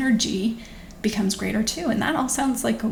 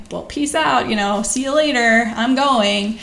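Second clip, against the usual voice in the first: exasperated goodbye; 3 dB louder than usual. Retold or imitated. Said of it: "being overwhelmed and being like".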